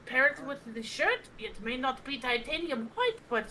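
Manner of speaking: light Irish leprechaun lilt; leprechaun accent. Acted. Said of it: "You just sounded like a leprechaun".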